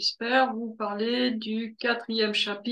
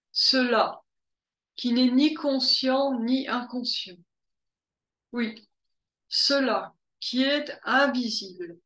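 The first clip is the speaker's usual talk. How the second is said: measured recitation with long pauses between phrases; deliberate, spaced-out reading of scripture; scriptural recitation. Acted. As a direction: recite a sacred text, letting each phrase stand alone. Recites a quoted Upanishad.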